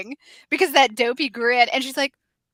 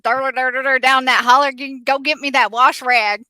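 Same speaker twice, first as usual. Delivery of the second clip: Southern drawl; 6 dB louder than usual. Retold or imitated. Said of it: "get that Southern drawl".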